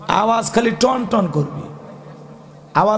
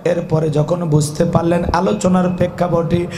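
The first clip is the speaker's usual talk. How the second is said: preaching. Acted. Preaching to a crowd.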